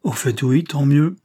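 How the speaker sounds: snapping out of the daze into indignation; getting worked up; indignant. Acted. Grocer recovers, grows indignant.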